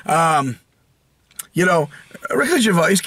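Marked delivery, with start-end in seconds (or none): 2.3-3.0 higher-pitched put-on British accent; exaggerated British imitation; mock British accent. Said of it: "a cool British accent like that".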